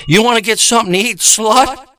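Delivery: fast jeering date invite; mocking fast invite. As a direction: rattle off the offer with a sneer.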